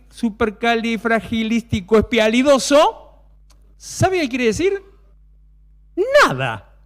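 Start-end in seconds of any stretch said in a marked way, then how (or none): 0.1-3.2 each syllable drawn out slow; slow careful word. Shown as a demonstration. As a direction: spell it out slowly by sound. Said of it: "pronounces slowly".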